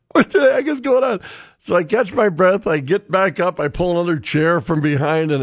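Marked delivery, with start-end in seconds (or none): 0.1-1.2 startled onlookers. Retold or imitated. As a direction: act out the onlookers' shock. Bystanders reacting to the fall.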